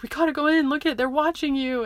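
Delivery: urgent mom, retold. Mom to child on the ground, retold urgent coaxing. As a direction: act out a mother coaxing urgently.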